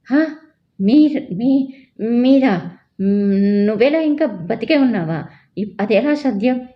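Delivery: high, loud stammering cry of shock; shocked shout. Acted. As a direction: gasp and yell as if seeing a ghost. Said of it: "గట్టిగా అరిచాడు".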